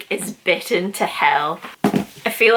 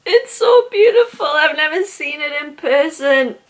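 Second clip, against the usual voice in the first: high, loud gasp of awe; awed gush; 6 semitones higher, 3 dB louder than usual. Real, not acted. Seeing the dream book for the first time, high and awed. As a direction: marvel at it breathlessly.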